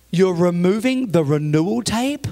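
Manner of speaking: slow, scandalized question; imitated aghast churchgoer; shocked disbelief. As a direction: draw it out in mock horror. Shocked church member in story.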